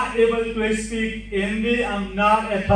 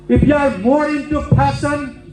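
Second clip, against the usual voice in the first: emphatic warning; 5 semitones higher, 4 dB louder than usual. Real, not acted. Lecturer building a warning.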